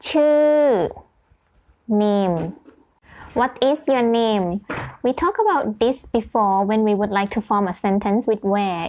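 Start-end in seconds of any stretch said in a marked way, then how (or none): 0.0-0.9 chêu said with pitch falling throughout. After comparing its ch to English, saying it with falling tone on chêu. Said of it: "falling tone".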